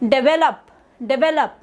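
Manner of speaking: "develop" as de-VE-lop, middle syllable clear; stress on second syllable. Shown as a demonstration. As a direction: bring out the VE in "develop". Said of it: "it's not develop, it's develop".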